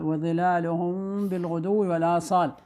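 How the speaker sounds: وظلالهم بالغدو recited slowly, the meem lengthened nasally; ikhfa shafawi with ghunnah. Shown as a demonstration. Teacher reciting the example for pupils, meem of وظلالهم held before بالغدو. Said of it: "الميم الساكنة والباء".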